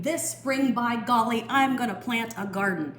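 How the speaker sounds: loud, high determined vow; determined gardener. Acted. A gardener vowing to plant his garden, determined and loud. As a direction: announce the plan with gusto. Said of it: "He sounds determined to me".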